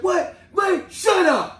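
high-pitched mock comeback; immature retort. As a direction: toss back a childish, drawn-out put-down. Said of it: "we acting immature".

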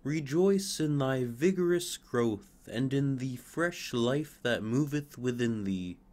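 a touch of radiant blessing; lightly voiced sunbeams, gentle; sunbeams' voice. Sunbeams blessing the fir's vigorous growth. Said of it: "said the sunbeams".

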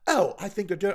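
light mock London accent; imitated British accent. Imitating a woman who sounds smart, mock British accent. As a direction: do a quick British accent impression. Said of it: "they start talking with that accent".

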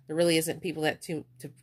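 stumbling over words; tripping on the words, stuttering. Real, not acted. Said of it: "Sorry, I'm stuttering".

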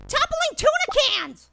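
high, drawn-out outrage; high-pitched exasperation at the game; comic curse. Real, not acted. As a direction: stretch out a silly swear in disbelief. Nonsense curse after failing.

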